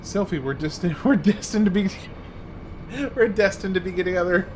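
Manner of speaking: laughing flirt. Acted. Streamer voicing Irvine's flirty line.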